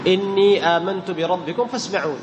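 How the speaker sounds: slow recitation, long held "innee" in إني; sukun with madd. Shown as a demonstration. Teacher gives example of silent ya, sukun with madd. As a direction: stretch إني before آمنت. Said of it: "من يسكن يمد".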